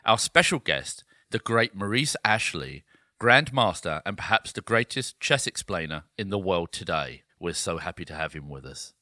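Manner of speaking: formal broadcast intro read; newsreader voice. Acted. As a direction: announce it like the evening news. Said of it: "You sound like a newsreader".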